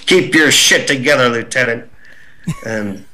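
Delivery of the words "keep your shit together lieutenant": lightly voiced stern officer; a hint of a drill captain scolding; Captain Dye's voice. Captain scolding the goofing lieutenant, lightly stern. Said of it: "heard this voice over my shoulder go".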